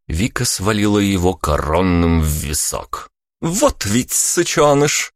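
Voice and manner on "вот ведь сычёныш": Vika's voice, higher and slow, a friendly jab; teasing exclamation, no anger; good-natured shout. A narrator's reading. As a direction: call it out without malice, higher pitched. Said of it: "выкрикнула она беззлобно".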